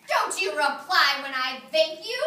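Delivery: slow, indignant demand; a mildly angry fairy, slow and loud; angered fairy. Acted. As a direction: scold like an offended fairy. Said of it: "cried the angered fairy".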